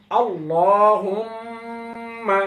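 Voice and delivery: আল্লাহুম্মা stretched very slowly, doubled ম held, falling at the end; careful pronunciation. Shown as a demonstration. Teacher modelling আল্লাহুম্মা for students, slow and drawn out. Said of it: "আয়না দেখে দেখে পড়ুন".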